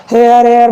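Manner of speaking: "हेयर एयर", first with an h, then without; confused pronunciation. Retold or imitated. Teacher imitates confused learners, "हेयर एयर" with and without h. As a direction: waver between "हेयर" and "एयर". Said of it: "बहुत से confuse होते हैं".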